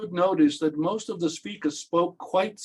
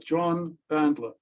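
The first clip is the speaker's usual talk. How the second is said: name said slowly, then spelled out letter by letter; deliberate, redundant self-introduction; slow, careful name. Shown as a demonstration. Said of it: "say it very, very slowly".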